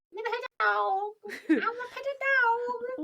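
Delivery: put-on high kid-voice pleading; little girl voice. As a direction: beg like an eager little girl. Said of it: "we'll go around the house, like".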